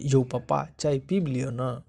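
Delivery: drawn-out, affectionate polite request; respectful, affectionate. Shown as a demonstration. Teacher models asking papa to have tea, respectful and affectionate. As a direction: offer it lovingly, stretching the last words. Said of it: "respected तरीके से और प्यार से".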